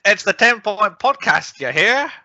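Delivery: slow, high Southern drawl for the intro; old-timey Mississippi accent. Acted. Podcast host opening the show in old-timey Mississippi accent. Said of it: "It's what they speak like in old-timey Mississippi".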